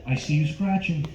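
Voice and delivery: lightly voiced De Niro, pushy and amused; a hint of De Niro needling the customer; mock tough-guy salesman, chuckling; De Niro impression. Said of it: "my impression of Robert De Niro".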